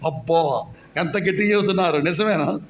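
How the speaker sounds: quiet, fast mock amazement at the weak reply; ironic teasing. Real, not acted. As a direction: tease them for answering so softly.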